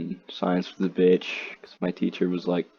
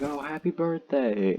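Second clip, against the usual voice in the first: higher-pitched, imitated friendly greeting; friendly birthday wish; 7 semitones higher than usual. Friend wishing the student happy birthday, imitated friendly tone.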